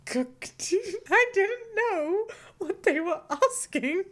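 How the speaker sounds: high, loud laugh after "Cooked."; laughing blurt. Retold or imitated. Telling of a waiter's question, laughing blurt. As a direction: blurt it then crack up. Acting own blunt reply.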